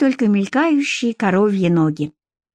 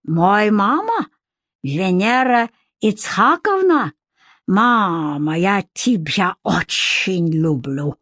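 proud; slower than usual. Acted. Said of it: "с гордостью продолжил".

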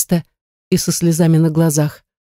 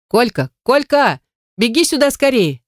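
high, urgent call for Kolka; 7 semitones higher than usual. A narrator's reading. Woman calling her husband over, high and urgent. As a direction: yell across the road for help.

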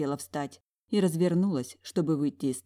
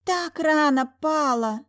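high, slow mocking gasp; mock-shocked sister; 11 semitones higher, 5 dB louder, slower than usual. A narrator's reading. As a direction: feign shock to humiliate her. Twin mocking. (притворно ахая, высоко и медленно)

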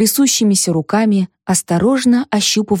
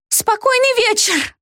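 much higher, slow, accusing cry; Zosya's outburst; 14 semitones higher than usual. A narrator's reading. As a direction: hurl it at her as if she is to blame. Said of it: "обрушилась на меня Зося".

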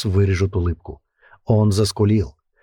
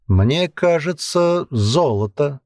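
slow, musing; thoughtful; 6 semitones higher, much slower than usual. A narrator's reading. Hooded man translating for the commander, slow and musing. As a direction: weigh the word slowly. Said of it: "задумчиво ответил человек в капюшоне".

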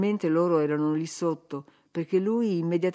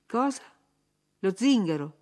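a sharp, louder, higher outcry; shouted; 4 semitones higher, 3 dB louder than usual. Acted. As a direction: bark out the insult in disbelief. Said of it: "gridò".

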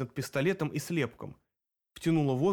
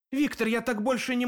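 desperate cry; 9 semitones higher than usual. A narrator's reading. Barman cries out to the leader, desperate. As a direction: beg him, near breaking. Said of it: "повторил Илья".

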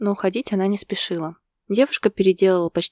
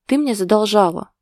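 sure of himself, a touch louder; confident; 4 semitones higher, 6 dB louder than usual. A narrator's reading. Husband insisting his wife owes him, confident. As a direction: justify it with easy confidence. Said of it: "уверенно оправдался мужчина".

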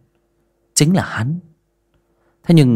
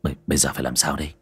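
worried stammer; 5 semitones lower, 6 dB quieter, much faster than usual. Acted. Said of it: "Gã lo lắng hỏi Thủy".

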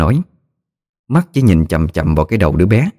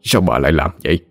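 put-on tearful old man; 3 dB quieter than usual. A narrator's reading. Husband grieves over what wife did, tearful and soft. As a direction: hold back tears as he speaks. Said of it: "Ông rưng rưng nước mắt".

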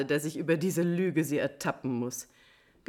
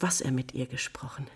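whisper; 6 semitones lower, 5 dB quieter than usual. Acted. Countess reveals spies' report.

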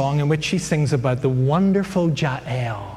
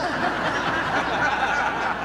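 soft amused chuckle; a quiet laugh at his own joke; 10 semitones higher, 4 dB quieter than usual. Real, not acted. Preacher laughing at his exam answer, soft chuckle.

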